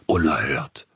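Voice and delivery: a short, indignant exclamation; scandalised outburst; outraged critic cries out. Acted. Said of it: "machte Herr Krause, dem vor Empörung".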